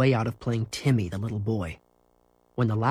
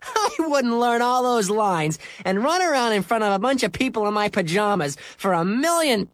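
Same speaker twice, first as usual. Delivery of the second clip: high-pitched scoffing, starting on a laugh; 10 semitones higher than usual. Acted. Scooter refusing any such part, laughing scorn. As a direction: ridicule the idea with amusement. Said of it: "Scooter laughed".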